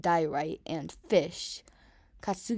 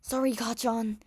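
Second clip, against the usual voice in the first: shouted back; 5 semitones higher than usual. A narrator's reading. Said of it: "he shouted back".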